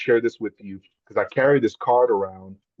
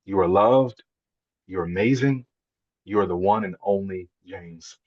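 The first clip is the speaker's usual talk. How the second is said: slow tender reading; slower than usual. Retold or imitated. Reading daughter's note aloud.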